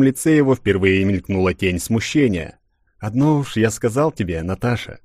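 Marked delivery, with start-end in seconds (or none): 3.0-5.0 gentle, grave and softening; tender but serious. Acted. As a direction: say it kindly but in earnest. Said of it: "Ласково, но чрезвычайно серьёзно".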